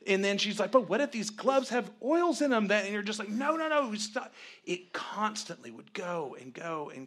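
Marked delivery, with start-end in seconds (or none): 0.7-2.7 high, loud anxious what-if; mock-panicked question; imitated fretting. Voices wife's next worry. 3.3-4.3 high, loud flurry of refusal; acted-out desperate protest; exasperated cut-off. Acts himself cutting off worries.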